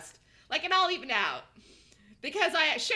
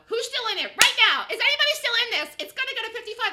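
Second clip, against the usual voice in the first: higher and louder, calling out; excited calling; 8 semitones higher, 9 dB louder than usual. Real, not acted. Trader calling out to viewers still in the trade. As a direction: call out urgently to the room.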